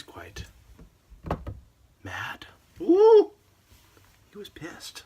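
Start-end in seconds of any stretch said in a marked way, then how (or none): 2.8-3.3 high, loud comic whoop; a sudden excited hoot. Real, not acted. Exclaims over the cowboy's anger. 4.3-5.0 hushed gossipy whisper; a conspiratorial whisper; whispered aside. Real, not acted.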